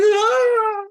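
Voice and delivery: sudden high shrieking gasp; startled shriek. Retold or imitated. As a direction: yelp as if insulted out of nowhere. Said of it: "and she's like".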